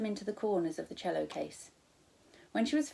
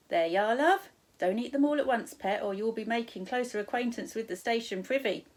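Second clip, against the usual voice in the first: high, louder friendly stall lady; cheery shop woman; 4 semitones higher, 5 dB louder than usual. Acted. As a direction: sing out the wares like a cheery server. Counter woman serves.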